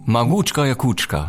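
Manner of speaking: Magutschka Jakutschka said fluently as Russian; Russian pronunciation. Shown as a demonstration. Guest supplies the Russian group name to host, "Magutschka Jakutschka" in fluent Russian pronunciation. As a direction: pronounce "Magutschka Jakutschka" as a practised Russian speaker. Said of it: "Du kannst besser Russisch als ich".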